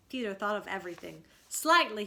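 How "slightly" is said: loud summoning call; captain calling a crew member. A narrator's reading. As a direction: call him over sharply. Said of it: "he cried".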